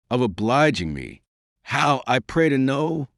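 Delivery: a touch of wrath, questioning him sharply; changed tone. A narrator's reading. Princess retorting to Quenouze's claim, in a changed tone. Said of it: "in a changed tone".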